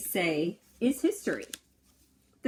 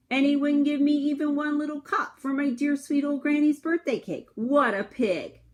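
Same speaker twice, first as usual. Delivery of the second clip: higher, louder indignant complaint; 7 semitones higher, 4 dB louder than usual. Acted. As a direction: sound thoroughly offended.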